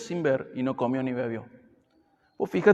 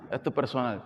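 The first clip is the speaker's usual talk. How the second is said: softer repeat; 3 semitones lower, 6 dB quieter than usual. Shown as a demonstration. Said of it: "¿eh?".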